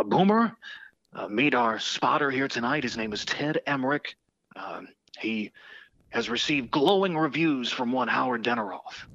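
hammed-up sportscaster impersonation; Marv Albert. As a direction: do a rough, workshop version of a famous announcer. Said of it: "my horrible Marv Albert impersonation".

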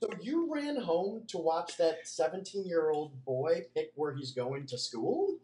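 slow, drawn-out disbelieving question; mock incredulous. Host imitating girlfriend questioning his fandom, slowly incredulous. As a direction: spell it out slowly, as if baffled.

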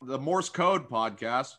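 slow, chewy words; chewing while talking. Real, not acted. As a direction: speak through a mouthful of gummy. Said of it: "I'm chewing on a gummy bear".

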